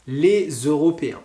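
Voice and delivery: "les Européens" with the S voiced as Z; demo: "lé-zEuropéens"; liaison with Z. Shown as a demonstration. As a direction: link "les" to "Européens" with a Z sound. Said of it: "c'est la même chose".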